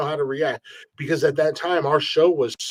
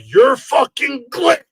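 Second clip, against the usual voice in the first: high, loud, drawn-out yell; starstruck drunk fan; 12 semitones higher, 7 dB louder, slower than usual. Retold or imitated. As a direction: imitate a fan losing it in awe. Drunk fan recognizes the host.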